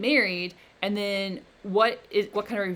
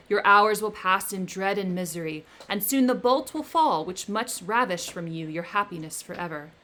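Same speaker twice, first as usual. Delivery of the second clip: loud, menacing creature; the creature threatening his maker, loud; vengeful threat; 3 dB louder than usual. Acted. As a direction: vow revenge with rising menace. Creature threatens Victor with revenge.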